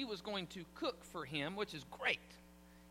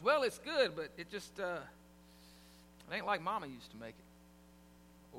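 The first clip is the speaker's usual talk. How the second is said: grudging complaint; 3 semitones lower than usual. Retold or imitated. Husband compares wife's food to his mother's, grudging. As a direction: drop away on "Mama used to make it". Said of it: "the original but".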